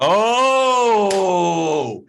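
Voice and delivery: loud, high exclamation of delight; excited outcry. Real, not acted. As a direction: cry out, thrilled by the note. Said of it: "did you feel that".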